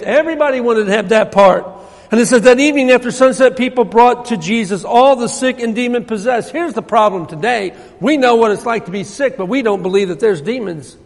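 ordinary talk

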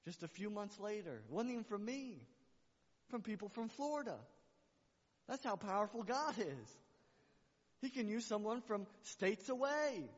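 fervent sermon climax; preaching at full force. Acted. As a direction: proclaim God's power to the church.

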